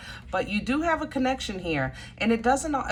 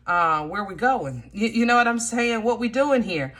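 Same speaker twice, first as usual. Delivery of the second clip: higher-pitched, puzzled appeal to God; mock bewildered questioning; 4 semitones higher, 3 dB louder than usual. Believer questioning God about getting in the boat, mock bewildered. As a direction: ask God, half exasperated, where this is headed.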